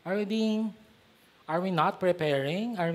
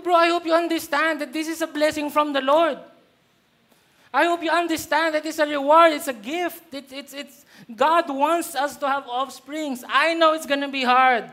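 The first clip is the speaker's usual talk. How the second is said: stern rebuke; 5 semitones higher than usual. Retold or imitated. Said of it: "Ginanon ko talaga siya".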